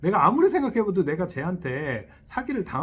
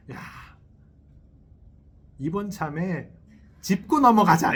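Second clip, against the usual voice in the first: loud, firm "짚고 넘어가자" as if picking a fight; confrontational demand; 2 semitones higher, 4 dB louder than usual. Retold or imitated. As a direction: imitate a partner insisting on having it out, louder. Acted quarrel between friends, spouses. (싸움 거는 듯 큰 소리로 "짚고 넘어가자")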